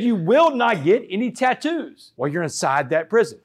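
imitating a mother's firm ban; retold motherly command. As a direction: lay down the law word by word. Retold mother laying down the law.

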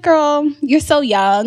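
slow, drawn-out motherly sigh; knowing comfort. Retold or imitated. His mom consoling the crying girlfriend, slow and knowing. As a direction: console her gently.

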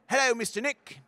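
high, sweet first-grader greeting; little kid voice. Retold or imitated. A first grader greeting his teacher, high kid voice. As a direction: chirp it like a shy six-year-old.

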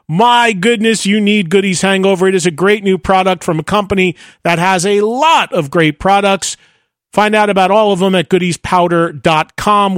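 upbeat podcast host's ad read; sponsor read. Acted. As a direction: pitch the product with punchy emphasis.

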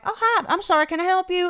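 sweet, high-pitched imitation; nicest woman. Kind local answering her door to a lost driver, imitated sweetly. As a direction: greet a stranger in a high, helpful voice. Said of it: "the nicest woman opens the door".

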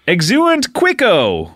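slow mock Spanish spell; fake Spanish. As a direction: draw out a fake Spanish incantation. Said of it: "it's like bad Spanish".

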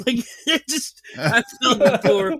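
cracking up while telling it; laughing at his own fall. Real, not acted.

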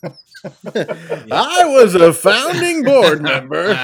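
slow, laughing joke answer. Real, not acted. Joking about being an eighteen sixty-six founder, laughing. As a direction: draw it out through laughter.

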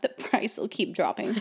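words broken by a laugh. Real, not acted. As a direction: laugh through the line. Laughing mid-sentence.

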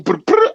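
high, drawn-out rolled brr; half-voiced mock yell; mock yelling noise. Shown as a demonstration. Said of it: "So instead of yelling".

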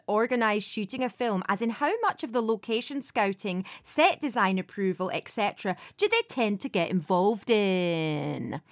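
second go at a put-on Scottish accent. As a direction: read the listener's question in Scottish. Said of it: "I've got to say it again".

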